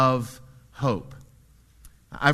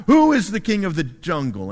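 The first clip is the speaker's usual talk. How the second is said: loud, higher, excited lion roar; 4 semitones higher, 7 dB louder than usual. Acted. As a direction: roar at the giraffe, bigger each time. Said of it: "he roars at the giraffe".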